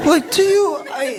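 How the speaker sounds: laughing rapper. Retold or imitated. Comic retelling of a rapper's reply.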